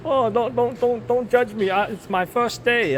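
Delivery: put-on high-pitched Asian accent voice. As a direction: play a nervous new worker in an Asian accent. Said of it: "I can do the Asian accent".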